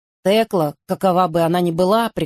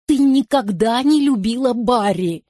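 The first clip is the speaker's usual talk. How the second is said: higher, mildly tearful reproach; a hint of sobbing, pitched up; 5 semitones higher than usual. A narrator's reading. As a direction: Virginia reproaching her friend, lightly tearful. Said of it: "всхлипывала Вирджиния".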